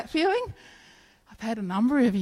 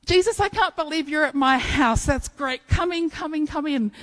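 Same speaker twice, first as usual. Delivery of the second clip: excited; 6 semitones higher than usual. Pretend. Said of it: "if you hear my voice and open the door".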